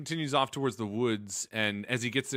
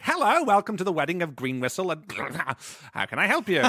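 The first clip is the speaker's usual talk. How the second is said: eager usher; 3 semitones higher, faster than usual. Acted. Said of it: "Acting as usher".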